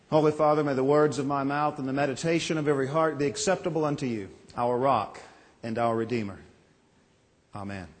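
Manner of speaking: pastor praying before the sermon; prayer. Acted.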